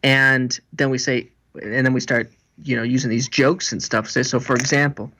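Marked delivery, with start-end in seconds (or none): none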